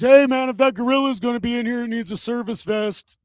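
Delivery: a hint of a nosy weirdo butting in; heckling weirdo. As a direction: pipe up from the back, hurried. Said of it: "weirdo pipes in from the back".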